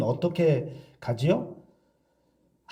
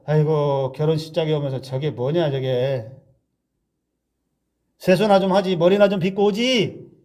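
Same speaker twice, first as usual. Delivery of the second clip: muttered scorn. Pretend. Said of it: "속으로 욕하는 거예요".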